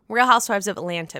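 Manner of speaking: fast, slurred run-through of the name; rushed. Shown as a demonstration. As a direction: rattle the title off too quickly. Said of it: "I said that so fast that I didn't really say it correctly".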